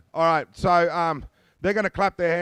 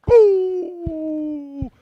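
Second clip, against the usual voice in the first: shout; 14 semitones higher, 8 dB louder than usual. Real, not acted. Dance leader calling out.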